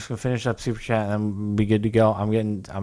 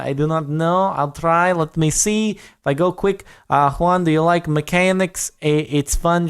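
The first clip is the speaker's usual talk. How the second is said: attempted Russian accent, pitched higher; 5 semitones higher than usual. Shown as a demonstration. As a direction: try a Russian accent, higher than usual. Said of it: "can you do Russian accent".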